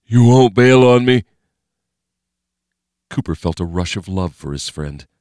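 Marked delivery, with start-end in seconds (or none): 0.1-1.2 scared plea. Acted. Scared Jeff asking.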